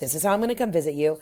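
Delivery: ordinary delivery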